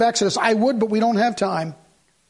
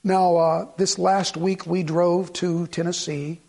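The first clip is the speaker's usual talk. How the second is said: mock preacher; 5 semitones lower, 3 dB quieter, slower than usual. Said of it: "Preachers will get up and they'll say".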